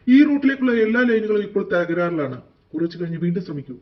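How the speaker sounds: loud telephone announcement voice; recorded operator. Acted. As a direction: recite it like an automated line message. Automated phone line announcement.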